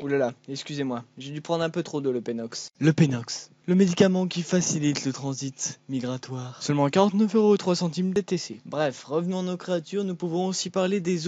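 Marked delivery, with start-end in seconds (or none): 2.8-8.6 spoof pharmaceutical ad read; punchy parody commercial voice-over; mock drug advert. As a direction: pitch it like an infomercial announcer.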